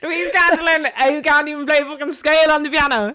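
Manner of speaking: loud, high-pitched incredulity; mock scolding. Real, not acted. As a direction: scold a friend in amused disbelief. Mock scolding over piano purchase.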